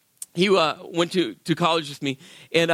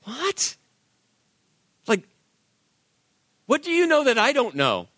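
startled suspicion; 6 semitones higher than usual. Retold or imitated. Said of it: "I'm like".

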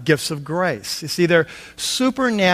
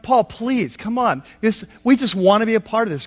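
mock pleading; 4 semitones higher than usual. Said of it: "They urgently pleaded".

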